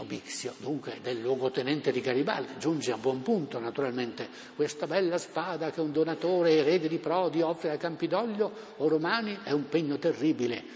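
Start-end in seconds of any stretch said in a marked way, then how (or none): 4.6-10.6 theatrical oration. Retold or imitated. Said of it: "recitazioni teatrali".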